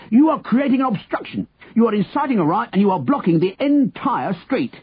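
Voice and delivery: high, indignant list of offences; bellowing. A narrator's reading. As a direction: reel off charges as an outraged policeman. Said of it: "the policeman bellowed".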